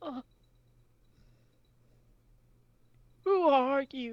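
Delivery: lightly sobbing all through the words. Narrating to the players, the speaker voices a character heard with a light sob. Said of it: "you start to hear a light sob. As he goes".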